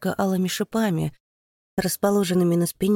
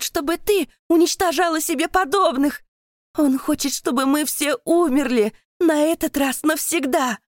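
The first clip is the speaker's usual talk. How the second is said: much higher, louder, unbroken outcry; straining desperate scream; 9 semitones higher, 4 dB louder than usual. A narrator's reading. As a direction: pour out the whole truth at full voice. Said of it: "надрывается Катя".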